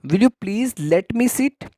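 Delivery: very slow, careful teacher read; slow model phrase. Shown as a demonstration. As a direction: repeat it slowly for students to copy. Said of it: "क्या आप मुझे बैठने दोगे?". (धीमा, साफ़ उच्चारण)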